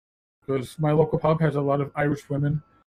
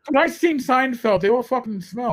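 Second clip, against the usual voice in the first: Irish brogue; 5 semitones higher than usual. Retold or imitated. Captain complaining about car wash workers, imitated Irish brogue. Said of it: "my captain with his Irish brogue".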